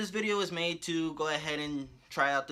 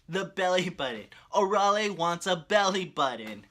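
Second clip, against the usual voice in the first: louder, raised-voice exclamation; excited punchline; 4 semitones higher, 6 dB louder than usual. Retold or imitated. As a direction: proclaim the punchline with mock amazement. Delightedly repeats the story's punchline.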